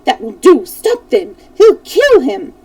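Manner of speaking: mild mock alarm, rising to high on the last words; shouting crowd. A narrator's reading. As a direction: cry out to stop the fight. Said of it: "People in the house shouted".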